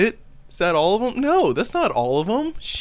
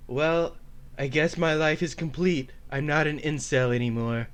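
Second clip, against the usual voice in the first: lightly voiced, subdued afterglow; Elliot Rodger; 2 semitones lower, 6 dB quieter than usual. Comedian's nemesis reflects after sex, light Elliot Rodger impression. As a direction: settle down into mild resignation. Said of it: "this is probably what it would have sounded like".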